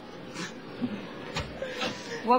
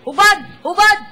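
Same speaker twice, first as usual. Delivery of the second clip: tough cop; 3 semitones higher, 4 dB louder than usual. Pretend. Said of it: "Kunwari, police ako".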